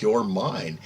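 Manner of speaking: understated, matter-of-fact claim. Retold or imitated. Satan claiming her like his own kid, matter-of-fact. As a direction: say it as plain fact, imitating him. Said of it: "says it so matter-of-factly".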